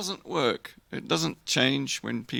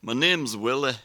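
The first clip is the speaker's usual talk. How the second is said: Scottish accent. Shown as a demonstration. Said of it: "in Scotland".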